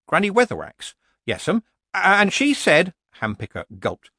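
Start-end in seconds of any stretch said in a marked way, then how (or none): 1.3-2.9 higher, louder yokel telling a tale; slow, hesitant country fellow; nervous rustic villager. A narrator's reading. Villager Hampicker reporting to Nanny Ogg, nervous.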